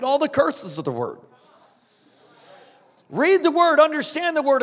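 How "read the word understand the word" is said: loud pulpit command; forceful preaching. Acted. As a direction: read the word, called out loud. Preacher exhorting.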